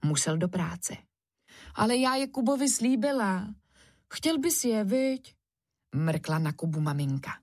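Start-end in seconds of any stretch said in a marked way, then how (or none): 1.7-5.4 mum. Acted. Mum teasing Kuba.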